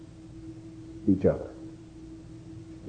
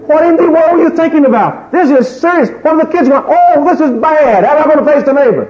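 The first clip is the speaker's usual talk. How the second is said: high, loud, shrill-pitched hammed-up panic; a comic meltdown over the house payments; hysterical wife; 5 dB louder than usual. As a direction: wail like a frantic wife. Wife panics over lost job.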